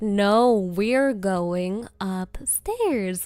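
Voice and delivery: slow, low, loud firm voice; firm refusal. Retold or imitated. Owner firmly refusing the dog, slow and low. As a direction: lay down the law slowly. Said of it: "and I was like".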